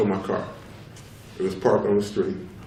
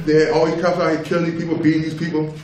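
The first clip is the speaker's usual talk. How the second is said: raised voice; 5 semitones higher than usual. Real, not acted. Heated argument about police.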